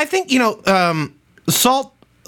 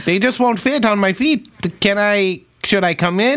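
put-on Midwest accent; 2 semitones higher than usual. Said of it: "that's my Midwest accent".

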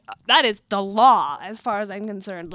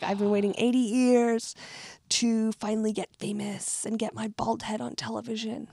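put-on Australian old man; 4 dB quieter than usual. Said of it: "an old man Australian being like".

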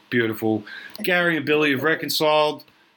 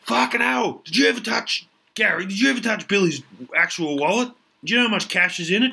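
high, excitable bloke; pitched-up wallet-obsessed mate; Duck's voice; 6 semitones higher than usual. Acted. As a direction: raise it and get worked up. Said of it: "He's like".

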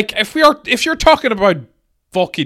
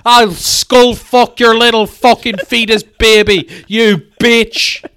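hammed-up abusive boss rant; mock abusive rant; 5 semitones higher, 4 dB louder than usual. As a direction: spit out the insults. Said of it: "I want something like".

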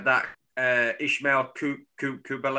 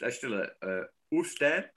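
Oostende in a mock Flemish accent; bad Flemish accent; 4 dB quieter than usual. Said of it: "that's a terrible Dutch accent".

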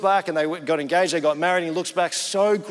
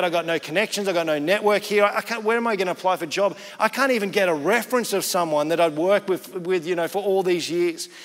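imitated pleading, pushed louder without tears; retold desperate lament; 3 dB louder than usual. Jobless man lamenting to God, retold desperate lament. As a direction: pour out complaints, emphatic rather than weeping. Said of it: "in this moment of weeping before God".

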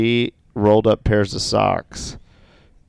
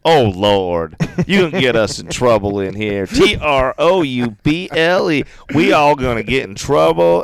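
mock scolding, spelling it out higher; exasperated boss; 4 semitones higher, 3 dB louder than usual. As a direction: imitate a boss loudly despairing of troublemakers. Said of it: "she would just go".

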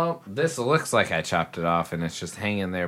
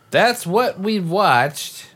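theatrical; 11 semitones higher, 6 dB louder, much slower than usual. Pretend. Theatrical comment while choosing music.

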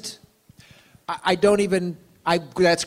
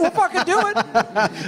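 tough guy voice; 9 semitones higher, slower than usual. Pretend. Mock fight challenge.

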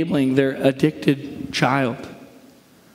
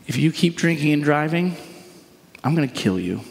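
threatening. Shown as a demonstration. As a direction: deliver it as a threat, dropping pitch at the end. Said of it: "Do you hear the threatening nature of that?".

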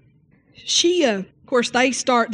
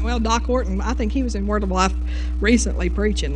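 normal talking voice

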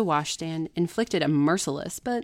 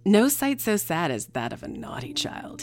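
stern clergyman; 2 semitones higher, 4 dB louder than usual. Acted. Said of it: "it's about to get worse".

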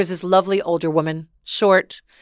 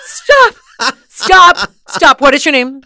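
astonished disbelief; 6 semitones higher, 9 dB louder, slower than usual. Retold or imitated. Learning the woman's son's identity, loud astonishment. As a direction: halt them in total amazement. Retold shock at son's name.

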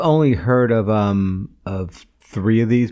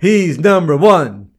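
slow emphatic; 3 semitones higher, 5 dB louder, much slower than usual. Pretend. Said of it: "said twice, first take".

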